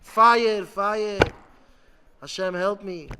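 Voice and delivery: loud cry for rescue; screaming to Hashem. Retold or imitated. A person with an evil urge calling on Hashem, screaming. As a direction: shout it out as a desperate prayer. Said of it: "he screams to Hashem".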